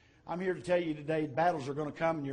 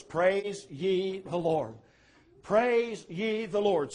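drawn-out, deliberate chorus line; slow chorus refrain; 3 semitones higher, much slower than usual. Acted. Preacher quoting the singers' battle chorus, slow and drawn-out. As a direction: stretch each word slowly like a refrain. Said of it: "just sing the chorus".

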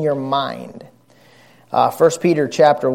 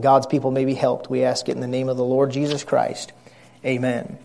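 public prayer. Real, not acted. Pastor asks God to bless his church, praying. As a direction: pray humbly and steadily to God.

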